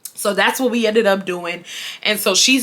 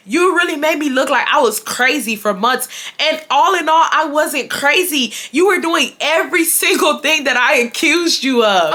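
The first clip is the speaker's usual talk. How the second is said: higher-pitched, indignant accusation; retold angry accusation; 5 semitones higher than usual. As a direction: press the accusation, aggrieved but not shouting. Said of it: "but I'm so angry".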